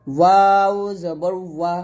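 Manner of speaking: long ওয়াও with lips pursed round. Shown as a demonstration. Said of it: "ঠোঁট গোল করে". (ঠোঁট গোল করে ওয়াও)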